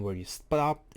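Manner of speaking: real crack in the voice on "stopped". Real, not acted. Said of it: "sorry, my voice cracked".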